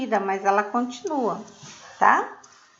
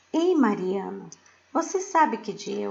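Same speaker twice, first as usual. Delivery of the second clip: "você sabe que dia é hoje?" asked with a clear questioning lift at the end; question tune. Shown as a demonstration. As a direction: read it as a real question to Mariana. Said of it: "você está perguntando".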